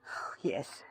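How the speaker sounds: soft, breathless resignation; broken whisper. Acted. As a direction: let it slip out defeated.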